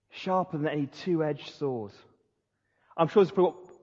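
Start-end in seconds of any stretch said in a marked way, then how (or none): 0.1-1.9 soft, slow echo of the verse; quiet repeat. Shown as a demonstration. Preacher quietly repeating the verse to his congregation, soft and slow. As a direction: let it land softly. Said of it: "it says this".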